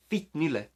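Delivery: "Fittnylle" said neatly for learners to copy; pronunciation demo. Shown as a demonstration. Teacher repeats the insult for learners, "Fittnylle" pronounced in Swedish. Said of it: "fairly simple for you to pronounce".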